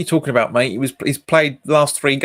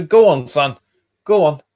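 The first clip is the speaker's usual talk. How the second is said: urging on; 6 dB louder than usual. Real, not acted. Urging a player on.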